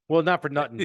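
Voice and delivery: put-on a light New York mob accent, "not for nothing"; tough-guy New York mob twang. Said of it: "talking like you're in the mob".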